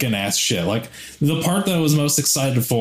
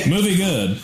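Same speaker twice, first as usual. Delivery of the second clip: caveman voice; 6 semitones higher than usual. Pretend. Caveman joke answer.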